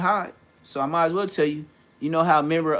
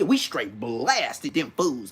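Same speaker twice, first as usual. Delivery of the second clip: slow OG imitation, BLASTED stretched out; OG talk; 4 semitones lower, much slower than usual. Showing how the OG homie said it, slow emphasis. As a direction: drag out "blasted" like an old OG. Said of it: "that's how the O G".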